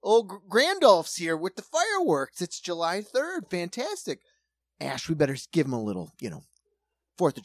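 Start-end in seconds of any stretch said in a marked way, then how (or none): 0.0-4.2 high, loud mock thrill at the fireworks; mock delight. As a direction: gush like a kid seeing Gandalf. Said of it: "if you are like".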